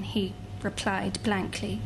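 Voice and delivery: ordinary talk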